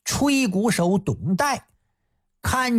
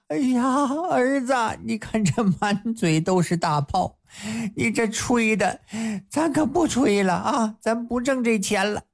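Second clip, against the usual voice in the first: higher, fretting mother voice; mother's fond scolding; 3 semitones higher than usual. Acted. Mother fussing over her trumpeter son, higher. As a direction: scold him gently for his swollen lips.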